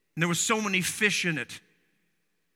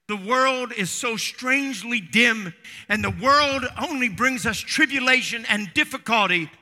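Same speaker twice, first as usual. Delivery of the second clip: raised, ringing pulpit voice; impassioned preaching; 5 semitones higher, 5 dB louder than usual. Real, not acted. Preacher telling the congregation of the world's tribulation, impassioned. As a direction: preach it with rising intensity.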